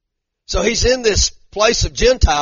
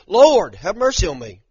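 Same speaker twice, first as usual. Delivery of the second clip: louder mock plea, leaning on Lord; retold crying out; 3 semitones higher, 5 dB louder than usual. Woman cries out to Jesus for mercy, retold pleading. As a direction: imitate a woman calling out for mercy. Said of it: "she cries out and she says".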